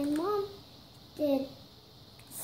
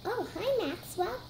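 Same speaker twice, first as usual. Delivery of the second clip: pretend toy greeting; 5 semitones higher than usual. Puppy toy greets another toy.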